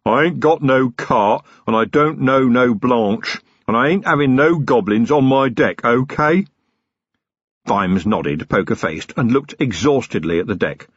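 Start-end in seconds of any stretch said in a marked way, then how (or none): 0.0-6.5 growled. Acted. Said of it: "The giant growled".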